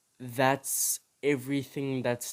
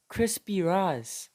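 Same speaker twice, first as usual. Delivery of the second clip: Crispy stressed, slow and higher, falling; mock Crispy Rice; 6 semitones higher, slower than usual. Shown as a demonstration. Scoffing at the English cereal name, slow mocking repeat. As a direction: drag out Crispy Rice in disbelief. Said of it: "It was called Crispy Rice".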